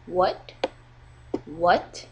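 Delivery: "what" sliding from low to high; rising tone. Shown as a demonstration. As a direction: ask "what" with a steep rise. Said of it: "It goes from low to high".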